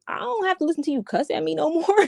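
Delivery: laughing through the words; amused disbelief, voice high; half laughing at the memory. Retold or imitated. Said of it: "I'm like".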